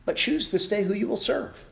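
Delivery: high, loud fervent call; impassioned Joshua. Acted. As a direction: proclaim like a prophet. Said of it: "He goes and he says".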